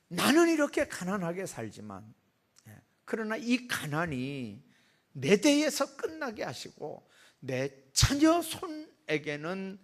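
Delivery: slow, high pleading cry to God; earnest prayer, drawn out. Acted. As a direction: beg heaven with a lifted voice. Praying mother voiced in sermon.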